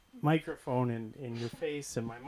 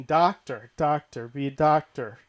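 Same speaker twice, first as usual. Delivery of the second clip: mom pushing; 6 dB louder than usual. Retold or imitated. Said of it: "my mom was always pushing".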